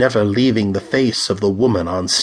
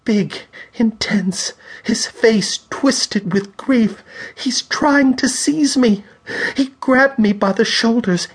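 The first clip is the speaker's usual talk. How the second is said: terrified; 11 semitones higher than usual. A narrator's reading. Terrified medium sees the spirit.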